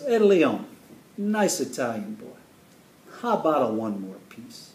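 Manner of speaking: a touch of pushy Italian hostess; Italian mother. Retold or imitated. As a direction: hail the boy, then coax in a hint of Italian mom. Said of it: "she's a large Italian woman".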